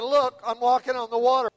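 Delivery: thrilled to be walking on water; amazed. Acted. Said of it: "to his amazement".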